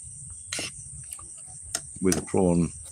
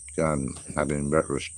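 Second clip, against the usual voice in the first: mouth full; 3 dB quieter than usual. Real, not acted. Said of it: "talking with my mouth full".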